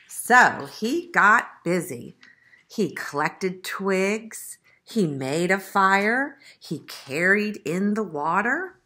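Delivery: slow, listing picture-book narration; story narration. A narrator's reading. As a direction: read each chore out slowly for children. Reads the story aloud.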